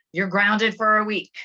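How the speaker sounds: wrong way. Shown as a demonstration.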